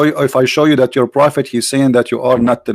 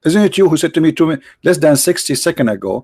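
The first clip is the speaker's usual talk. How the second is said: heated challenge; 4 semitones higher than usual. Real, not acted. Confronting opponent about switched opinion.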